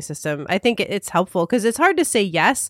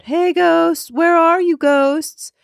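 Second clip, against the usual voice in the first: high, raised taunting call; yelling out; 11 semitones higher, 5 dB louder, much slower than usual. Retold or imitated. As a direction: call out to the ghosts. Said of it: "just kept yelling out".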